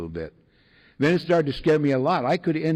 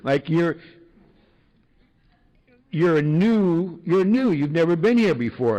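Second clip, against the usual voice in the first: put-on higher, bright friendly old-timer insisting; eager old-timer; 6 semitones higher than usual. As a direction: spell it out kindly to the newcomer. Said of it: "he goes".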